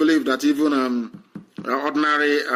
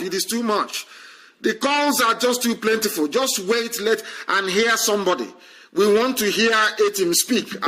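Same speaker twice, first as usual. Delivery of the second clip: higher-pitched, insistent appeal; raised, harried pleading; exasperated plea; 5 semitones higher than usual. Real, not acted. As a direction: plead with too many callers to hold off. Host pleads with callers jamming lines.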